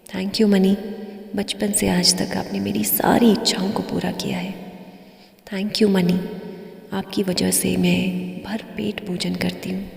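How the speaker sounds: unhurried meditation voice with long pauses; guided meditation. Acted. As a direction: lead a gratitude meditation, leaving space after each phrase. Leads a gratitude meditation.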